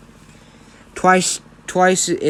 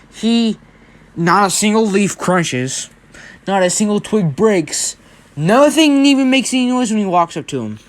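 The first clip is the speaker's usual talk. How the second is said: emphatic, louder and higher, word by word; dramatic build; 5 semitones higher, 3 dB louder than usual. A narrator's reading. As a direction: build the suspense, punching each phrase.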